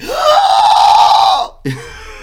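high piercing monster scream; monster shriek. Acted. Acting out a penis monster.

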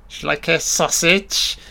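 hammy, lilting offer; Mister Wonderful. Acted. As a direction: play the host offering food in a silly high voice. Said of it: "I'm Mister Wonderful".

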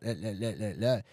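imitating a nervous stutter, halting eh sounds; mock stuttering. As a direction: stammer like a beginner who has lost the thread. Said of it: "You're not stuttering".

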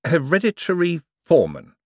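flat, stunned repetition of "Hereditary foreman"; blank repeat. Acted. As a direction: echo it back blankly, dazed. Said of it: "Moist repeated blankly".

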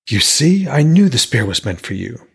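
eager smith. Acted. Smith speaks to Hodor.

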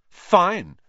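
a proud final word; haughty. A narrator's reading. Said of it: "said Hermione haughtily".

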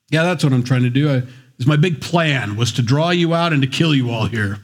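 dry sarcastic reply with a laugh. Retold or imitated. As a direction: toss it off sarcastically, half laughing.

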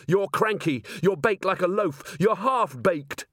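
high-pitched jeers, contained volume; taunting shout. A narrator's reading. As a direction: provoke the enemy with each jibe. Woman taunts the golem mid-fight.

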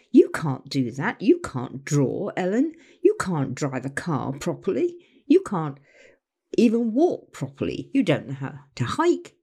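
low critical put-down. Retold or imitated. The critics telling Ellen she can't do anything, low and scolding. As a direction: talk down to her like a fault-finding critic.

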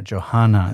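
Johanan said as "Jo-ha-nan", stressing the Hannah sound inside; Hebrew pronunciation. Shown as a demonstration. Teacher pointing out Hannah inside the name, careful Hebrew pronunciation. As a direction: lean on the "hanan" in Johanan. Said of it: "you hear the Hannah in there".

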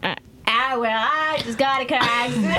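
put-on Southern accent. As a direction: draw the words out like a Southerner. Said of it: "do me a Southern accent for Frankie".

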